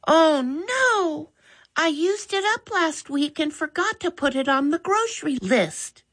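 put-on young girl's sorry "oh no"; Molly's girl voice. A narrator's reading. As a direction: voice the sister, caught out and sheepish. Molly admits forgetting the spray.

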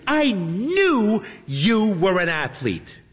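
put-on high, slow, sugary girl voice; sweet streamer voice. A narrator's reading. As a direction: coo at a favourite fan. Hermione gushing at fan.

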